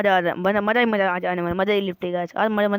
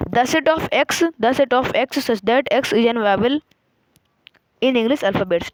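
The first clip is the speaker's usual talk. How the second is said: slow read-aloud; much slower than usual. Shown as a demonstration. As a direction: dictate it slowly to the students. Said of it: "repeat करके बोल के बता देता हूँ".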